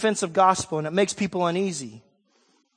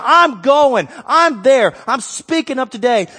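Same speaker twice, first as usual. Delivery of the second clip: louder, firm and certain; bold declaration; 6 semitones higher, 8 dB louder than usual. Retold or imitated. Abishai declaring he will speak up, bold. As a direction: announce it without backing down. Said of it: "He said".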